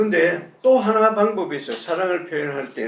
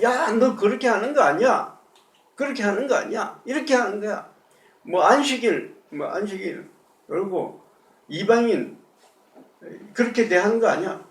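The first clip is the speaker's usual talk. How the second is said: scolding; 4 semitones higher than usual. Retold or imitated. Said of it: "그대로 꾸짖어요".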